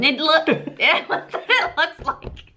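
slow, giggling through the words; can't stop laughing. Real, not acted. Giggling while describing the smell.

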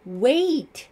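high, loud desperate scream. A narrator's reading. Suspect faces firing gun, desperate scream. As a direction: scream to stop the shot. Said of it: "Brett screamed".

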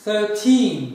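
put-on "thirteen" said clearly with a long stressed "teen" ending; teacher demo of "thirteen" ending in a long teen; English pronunciation. Shown as a demonstration. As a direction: model "thirteen" for the class, leaning on the "teen". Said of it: "Mesela on üç derken".

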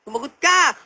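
high, demanding mock questioning; interrogating healer. Healer questions the possessed medium, mock stern demand. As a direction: demand an answer from the spirit.

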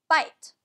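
"bite" with the final E unsounded; silent E. Shown as a demonstration. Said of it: "It's a silent vowel".

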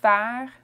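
"Pharmacie" in three separate French syllables. Shown as a demonstration. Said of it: "Pharmacy in French".

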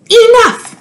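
high, loud fed-up cry; fed-up shout. A narrator's reading. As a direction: villagers snapping that they've had it. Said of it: "they said".

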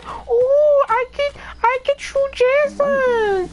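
gleeful at finding a shotgun; excited. Retold or imitated. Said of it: "and I said".

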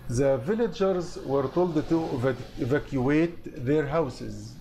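slow word-by-word reading for students; slow dictation. Shown as a demonstration. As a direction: read it out slowly, syllable by syllable. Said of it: "Evacuate هنا معناه يخلي". (قراءة بطيئة للطلاب)

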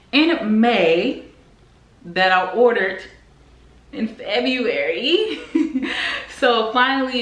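slow, drawn out, then a giggle; laughing exasperation. Real, not acted. Telling viewers about late furniture, exasperated laugh. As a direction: laugh at how long the order took. Furniture ordered months ago.

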